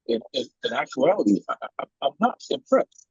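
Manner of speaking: choppy broken-up call audio; words repeating through a bad connection; buffering stutter. Real, not acted. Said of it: "you're breaking up".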